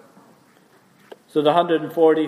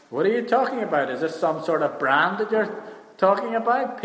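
higher-pitched mock bafflement; puzzled incredulity; 4 semitones higher than usual. People nowadays asked "are you saved", puzzled. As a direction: query it as if the word is foreign.

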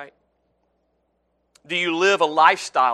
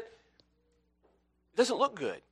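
slow warning; 5 semitones higher, 7 dB quieter, much slower than usual. Acted. Preacher warns of unrepentant life.

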